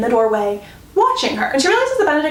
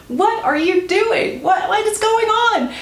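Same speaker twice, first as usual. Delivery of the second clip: high, drawn-out mock holler, little added volume; 9 semitones higher, slower than usual. Man calling after the fleeing woman, mock hollering. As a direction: imitate a demanding call, slow and high. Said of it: "He literally hollers after her".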